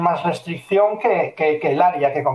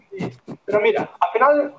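much higher, pleading client voice; insistent client; 9 semitones higher than usual. Retold or imitated. Client cutting in again, much higher and pleading. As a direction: squeeze out the client's last push.

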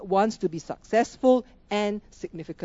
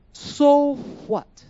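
"So what?" thrown out higher and louder; loud, higher rhetorical "So what?"; louder challenge; 6 semitones higher, 6 dB louder than usual. Acted.

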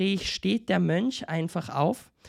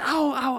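mock cry of pain; 7 semitones higher than usual. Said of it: "Und er schreit auf".

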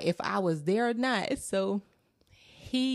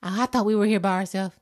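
put-on relieved child; 3 semitones higher than usual. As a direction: let it tumble out in relief. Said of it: "he was like".

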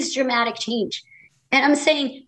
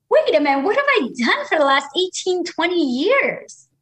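dismayed realisation; 4 semitones higher than usual. Acted. Voices own future dismayed realisation.

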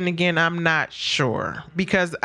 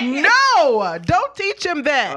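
high loud protest through laughter; laughing scold; 11 semitones higher, 5 dB louder, much slower than usual. Retold or imitated. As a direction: scold him but crack up. Mom scolding teenager while laughing.

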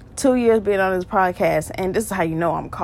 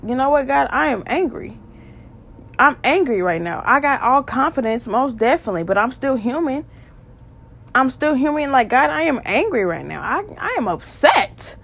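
higher-pitched, emphatic venting to God; mild acted anger; 5 semitones higher than usual. Believer telling God how they feel, mildly angry. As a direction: air a frustration openly, pitch swooping up. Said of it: "tell God you're angry".

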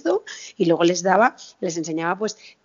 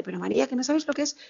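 higher-pitched imitation of a pleading mother; tearful pleading; 5 semitones higher than usual. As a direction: retell mum's plea, voice pitched up. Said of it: "La pobre entre lágrimas me lo decía".

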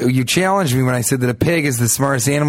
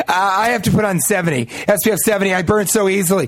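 lightly higher, mocking complaint; mock fussy woman; 5 semitones higher than usual. Guest imitating women who insist on seventy, lightly mocking. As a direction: imitate a sunscreen worrier, pitched up a little. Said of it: "women that are like".

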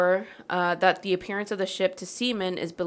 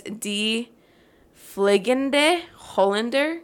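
slow, higher-pitched Dutch pronunciation; attempted Dutch accent; 3 semitones higher, 3 dB louder, much slower than usual. Shown as a demonstration. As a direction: sound out the Dutch name slowly. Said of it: "get into my Dutch voice".

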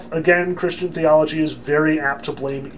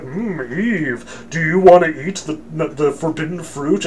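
a hint of a sly tempter; tempting serpent. Serpent offering Eve the forbidden fruit, lightly mock-seductive.

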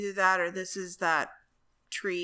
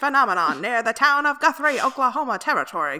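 put-on higher, louder old newsreel announcer; old-timey announcer; 5 semitones higher, 8 dB louder than usual. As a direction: boom it like a vintage newsreel. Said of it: "In your old-timey voice?".

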